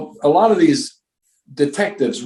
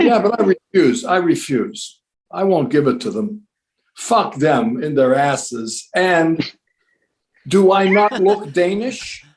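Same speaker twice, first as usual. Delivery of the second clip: mock actor voice; 4 semitones higher, slower than usual. Actor friend retells a colleague.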